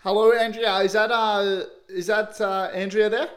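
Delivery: put-on phone prankster in a mild country accent. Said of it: "country accent needed".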